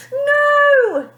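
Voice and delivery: high, loud desperate cry; screamed. A narrator's reading. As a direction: shout it over the noise. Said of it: "her parents screamed".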